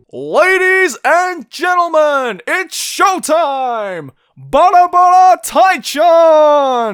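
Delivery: belted slowly, with one word stretched out long. Doing an impression of an English announcer: Pop Team Epic announcer voice. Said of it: "The English announcer man from Pop Team Epic".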